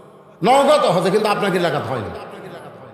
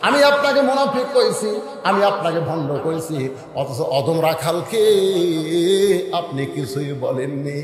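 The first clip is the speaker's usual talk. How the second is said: melodic preaching; slower than usual. Acted. Shepherd confesses as companions marvel, melodic preaching. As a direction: let it sink, then surge.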